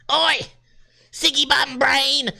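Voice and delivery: high, stretched mock Aussie heckle; Australian accent. Podcaster shows off for chat, high mock Australian accent. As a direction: holler it like a cartoon Australian. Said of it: "love my Australian accent".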